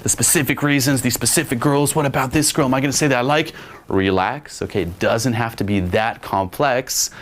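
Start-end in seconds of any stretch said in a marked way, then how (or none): 0.0-3.5 mock panic, pitched up; half-serious overthinking panic; freaking out. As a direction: imitate someone fretting in a higher, run-on stream. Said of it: "then you're freaking out".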